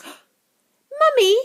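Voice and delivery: put-on high loud spoilt girl's shout. Veruca calling her mother, high loud shout. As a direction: yell for mummy, demanding. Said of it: "shouted Veruca Salt suddenly".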